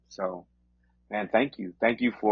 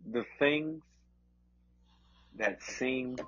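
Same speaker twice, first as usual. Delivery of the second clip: preaching. Acted. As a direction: preach with rising conviction. Delivers encouragement as preaching.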